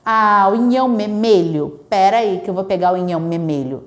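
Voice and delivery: parent repeating inhão memelho in mock baby talk; lightly mocking parental baby talk; parent copying baby talk. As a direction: echo the child's wrong words back, as the wrong example. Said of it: "nunca deve fazer é repetir a palavra errada".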